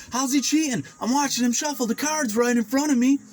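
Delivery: high, incredulous protest; indignant disbelief. Retold or imitated. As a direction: scoff at the idea he cheats. Retold indignant denial to friends.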